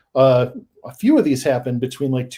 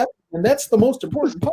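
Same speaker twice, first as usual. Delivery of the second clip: fast, high, near-shouted emphasis; rising to a passionate climax; excited outburst; 9 semitones higher, much faster than usual. Real, not acted. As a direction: rush out the point with a raised voice. Emphatic climax of his point.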